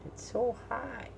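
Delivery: normal talking voice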